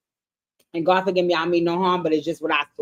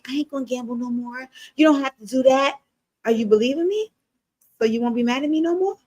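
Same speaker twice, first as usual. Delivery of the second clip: mock whiny apology; 2 semitones higher than usual. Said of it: "Damien give me".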